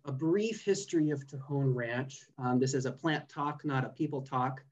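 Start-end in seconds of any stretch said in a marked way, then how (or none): 0.1-2.2 brief leaned on a little, rest of the line plain; stress on brief. Shown as a demonstration. Presenter promising the seminar audience a short history, stressing brief. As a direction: give brief a light extra push so the history sounds short. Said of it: "emphasis on the word brief".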